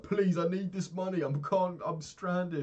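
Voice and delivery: high, loud desperate begging; pleading. Retold or imitated. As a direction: beg the airline like your life depends on it. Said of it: "I begged like three times".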